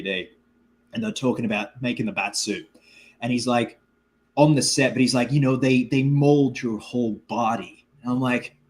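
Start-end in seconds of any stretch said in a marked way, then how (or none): 5.3-7.9 imitated actor's American accent, slowing down; lightly mimicked American interview accent; put-on American accent. Imitating an actor talking about the bat suit, American accent. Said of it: "him do his American accent".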